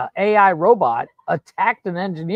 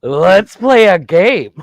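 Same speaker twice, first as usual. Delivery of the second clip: robot voice; 6 dB louder, much slower than usual. Retold or imitated. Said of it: "Do the robot voice".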